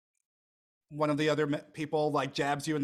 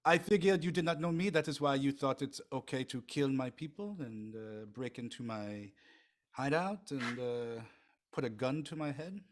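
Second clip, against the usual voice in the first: put-on French accent. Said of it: "you sound French French".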